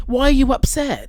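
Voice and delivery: exasperated. Real, not acted. Exasperated repeat to Amber.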